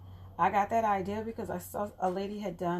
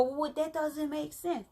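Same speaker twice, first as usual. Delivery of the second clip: skeptical viewer; 8 semitones higher, slower than usual. Retold or imitated. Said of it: "And I know you go".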